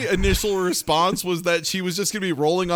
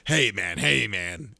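lower, softer soothing; lightly voiced calm buddy; mock soothing; 8 semitones lower, 4 dB quieter than usual. Retelling Larry calming Ben, in a low soft mock-soothing voice.

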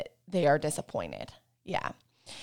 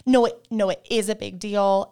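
mock protest; 4 dB louder than usual. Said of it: "And I'm like".

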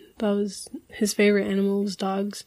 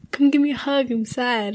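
lightly imitated dad, higher, asking for comfort; retold plea, a touch pitiful; mock sad plea; 3 semitones higher than usual. Dad asks child for a hug over commercials, mock sad plea.

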